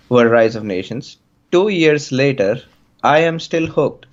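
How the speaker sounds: put-on light Indian English accent. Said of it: "so I can try my Indian accent on this".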